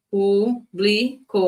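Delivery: "Público" slow with weight on PÚ; teacher marking "Público" as antepenultimate stress. Shown as a demonstration. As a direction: draw out "Público", leaning on the first syllable. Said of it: "Qual é a sílaba tônica".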